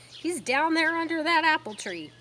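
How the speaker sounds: calling out. Acted. Mrs Zuckerman pointing out the pig.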